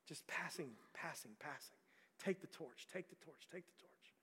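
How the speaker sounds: a sermon ending that fades to nothing; fading to a whisper. Acted. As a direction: drop away to a breathy whisper by the end. Closing fade on passing the torch.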